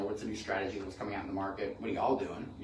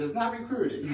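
much higher, laughing put-on accent; Hamudi's accent; 13 semitones higher, 4 dB louder than usual. Friend insisting it's not recruiting, mimicked accent. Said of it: "I like the accent".

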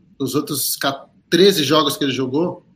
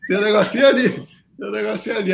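sudden hopeful perk-up, pitched higher; excited; 5 semitones higher than usual. Retold or imitated. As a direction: catch something on the replay, eagerly. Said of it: "Eu falei".

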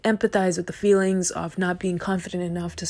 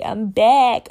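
excited; 4 semitones higher, 8 dB louder than usual. Real, not acted. Celebratory repeats.

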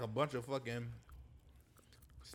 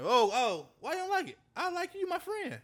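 high mock accent; 14 semitones higher, 5 dB louder than usual.

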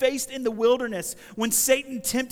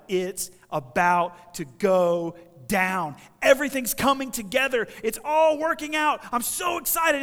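mock excitement; 3 semitones higher, 6 dB louder than usual. Preacher voicing disciples sure it is all working out, excited. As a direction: act out followers getting carried away. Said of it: "they're all like ... I'm so excited".

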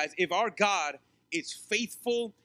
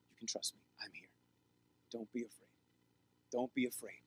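softly whispered reassurance, almost no voice; a hushed, reassuring whisper from Jesus; gentle whisper; 8 semitones lower, 9 dB quieter than usual. Retold or imitated. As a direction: breathe the comfort close to the ear. Voicing Jesus reassuring the listener.

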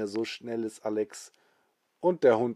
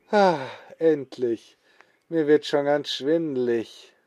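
relieved sigh; 3 semitones higher, 5 dB louder than usual. Acted. Alex relieved to stop.

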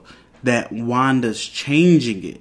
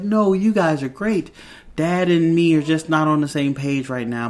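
higher-pitched imitation of a soothing mom; retold reassurance; 4 semitones higher than usual. Wanda tells her kids they are great, reassuring.

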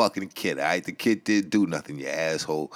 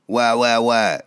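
whiny caller; 3 semitones higher, 6 dB louder, slower than usual. Acted.

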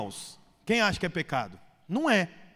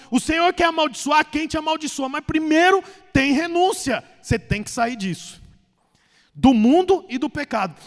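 preaching at full force. Acted. Pastor exhorting the church to renounce the world, fervent preaching. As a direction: preach it to the congregation with fire.

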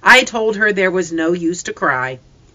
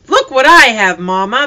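put-on high, loud child's cry of delight; little girl bursting to show Mama; excited cry; 7 semitones higher, 8 dB louder than usual. A narrator's reading. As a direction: call out thrilled to show it off. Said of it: "the little one cried".

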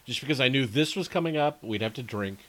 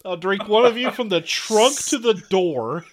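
mock menace; 7 semitones higher, 7 dB louder than usual. Threatens the beers.

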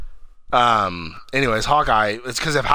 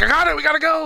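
very high, loud frantic quote; mock urgent yell; 5 dB louder, faster than usual. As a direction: yell it as if running for it. Acted yell of running character.

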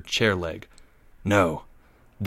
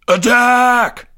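high, loud battle cry; scream; 14 semitones higher, 7 dB louder than usual. A narrator's reading. Trapped boy leader ordering charge, screaming. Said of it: "Greg screamed".

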